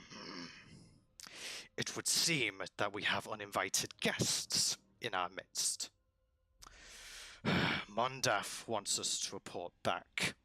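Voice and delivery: lightly voiced lizard, measured, with a sigh; restrained agitation, a heavy breath midway; agitated lizard. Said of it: "large lizard seems to be getting quite agitated".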